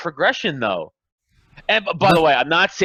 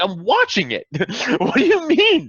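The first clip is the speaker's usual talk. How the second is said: laughing disbelief; 7 semitones higher than usual. Retold or imitated. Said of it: "I'm like".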